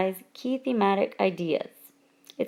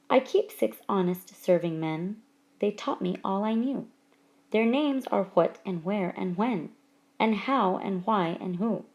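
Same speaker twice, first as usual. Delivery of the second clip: poem reading. Acted. Teacher reading a Kipling excerpt to the class, poem reading. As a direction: recite the verse line by line.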